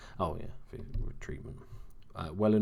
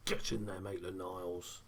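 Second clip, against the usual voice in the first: quieter celebration; 6 dB quieter than usual. Real, not acted. Gamer praising his scorer while his missus sleeps, quietly pleased. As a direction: savour it under your breath. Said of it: "why I'm talking a bit quieter".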